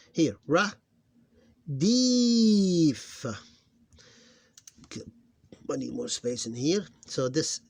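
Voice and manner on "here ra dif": dif held long, higher and louder; syllables spelled out. Shown as a demonstration. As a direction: model ra, dif clearly. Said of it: "reading syllables aloud".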